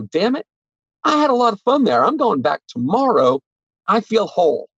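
happy customer. Retold or imitated. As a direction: play a thrilled shopper walking out. Imagined delighted customer leaving store.

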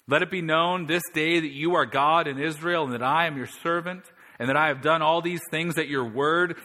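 loud, high pleading prayer; Elijah's fervent prayer. Retold or imitated. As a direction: call on God to answer before everyone. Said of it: "Elijah the prophet came near and said".

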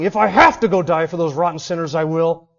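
mock gritted teeth. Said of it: "gritting his teeth, and saying".

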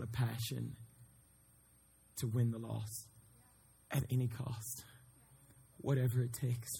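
soft, earnest plea with weighty pauses; hushed preaching appeal. Real, not acted. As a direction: preach it quietly and solemnly, letting each phrase land.

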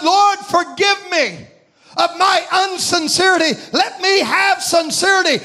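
pleading prayer. Retold or imitated. Retold prayer begging God's forgiveness.

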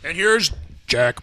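announcer voice. Pretend. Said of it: "do it in the announcer voice".

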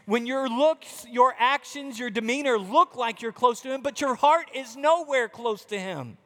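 lightly voiced Jesus, firm and searching; Jesus rebuking. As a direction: plead with the self-righteous to see.

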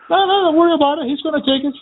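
high squeaky imitation of the passenger girl; mocking the girl. Driver mocking the pushy girl passenger, high and squeaky. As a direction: mimic her in a high, bossy voice. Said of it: "the girl, she was like".

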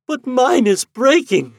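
high, slow heartbroken wail. A narrator's reading. Lady wailing as the ghost fades, high and slow. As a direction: wail it as he vanishes. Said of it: "she wailed".

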